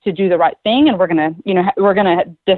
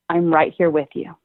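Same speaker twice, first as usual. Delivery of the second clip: soft, slightly lowered reassuring voice; soothing reassurance; 3 semitones lower, 3 dB quieter than usual. Shown as a demonstration. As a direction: gently reassure an upset child. Models soothing words for upset child.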